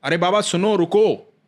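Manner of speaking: put-on boy calling out to stop him. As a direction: call after the old man so he stops. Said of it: "एक बालक आवाज दे रहा है".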